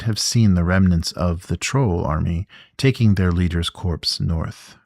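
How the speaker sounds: even, measured storybook reading; story narration. A narrator's reading. Reading a gamebook entry to the listeners, calm narration. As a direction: read the scene out like a narrator setting the stage.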